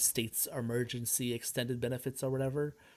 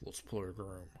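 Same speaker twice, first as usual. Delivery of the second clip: Jigsaw voice; 3 semitones lower, 6 dB quieter than usual. Retold or imitated. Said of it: "he is Jigsaw".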